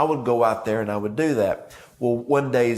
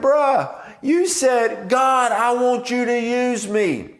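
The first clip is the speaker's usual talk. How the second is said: high and loud, drawn-out teasing quote; slow, high, louder mocking "God, I want you to use me"; incredulous mock retort; 11 semitones higher, 4 dB louder, much slower than usual. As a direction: throw his own words back at him, pitched way up. Retorting, quoting the plea back.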